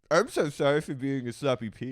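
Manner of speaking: mocking puckered-lip apology; Schwartz impression. Podcaster mimicking a fish-lipped man apologizing, puckered mock voice. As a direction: pucker your lips and mock his apology. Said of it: "He's like this".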